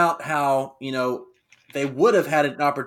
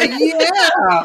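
high, loud, drawn-out goofy yell; Pat Patterson; 13 semitones higher, 8 dB louder than usual. Retold or imitated. Host mimics old wrestler yelling at his rival, goofy yell. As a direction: imitate a yelling old goof, climbing higher. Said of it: "he's, like, yelling at this guy".

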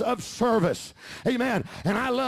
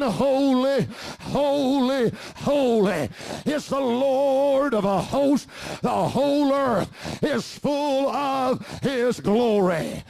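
seraphim's cry; slower than usual. Acted.

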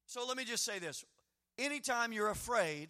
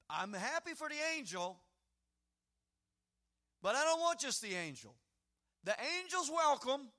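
Moses insisting; 3 dB louder than usual. Acted. Moses bargaining with God.

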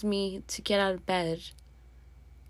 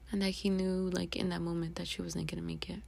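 whisper; 4 semitones lower, 9 dB quieter than usual. Real, not acted. Dad's last call with grandma.

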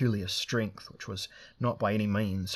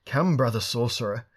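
exultant cry; 3 semitones higher, 7 dB louder than usual. Acted. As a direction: cry out in triumph. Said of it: "cried Drinaj Bara exultantly".

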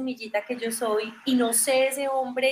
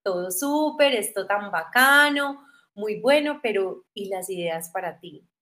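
inner voice. Retold or imitated. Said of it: "una voz en el cerebro que me dice".

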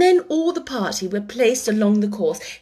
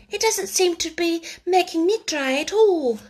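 melancholy; 8 semitones higher than usual. A narrator's reading. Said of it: "in a melancholy tone".

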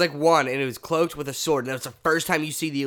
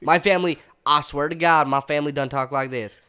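a playful put-on Southern accent, a bit louder; 4 dB louder than usual. Half-drunk friend mocks his Southern family in a hammed-up Southern accent. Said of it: "This is how all of my family talks".

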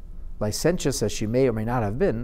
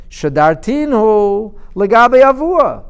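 emphatic quote; 7 semitones higher, 8 dB louder, slower than usual. Acted. Quoting the daughter's deed, emphatic.

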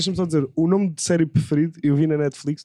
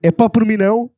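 a louder, punchier retake; louder repeat on request; 4 semitones higher, 7 dB louder than usual. Shown as a demonstration. Repeating the line when asked, louder still. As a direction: hit it harder on the retake. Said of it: "Agora diz".

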